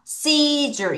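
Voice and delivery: "seizure" modelled clearly as SEE-jer, long first syllable; teacher's model of "seizure", stretched SEE then falling jer; pronunciation demo. Shown as a demonstration. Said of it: "한 번 더".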